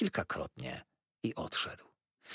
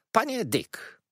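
calling Mr Dick; 12 semitones higher, slower than usual. A narrator's reading. Aunt addresses Mr Dick.

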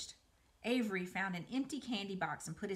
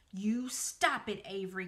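crying out. Acted. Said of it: "cried Fern".

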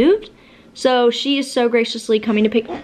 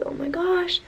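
dismayed gasp; 8 semitones higher, 7 dB quieter than usual. Retold or imitated. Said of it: "I'm just like".

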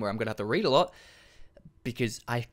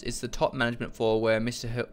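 halting, slower read of the text; coming out slowly. Real, not acted. Player reading a floor directory aloud, slow halting read. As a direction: read it slowly and break off unfinished. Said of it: "They came out very slowly".

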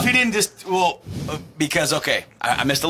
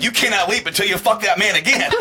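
laughing mock command; 8 semitones higher, 4 dB louder than usual. Comic quoted voice, laughing.

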